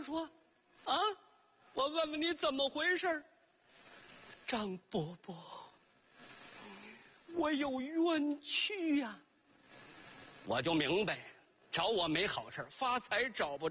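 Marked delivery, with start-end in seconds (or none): 4.4-9.2 wronged ghost. Acted. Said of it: "就听这盆儿说".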